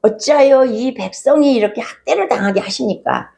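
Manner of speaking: retold lament, lightly pleading, without real crying; mild imitated tearful pleading. Moses questioning God over the abused people, mildly imitated plea. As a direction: act out an anguished prayer with restraint. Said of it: "부르짖으면서 울면서 기도하는데".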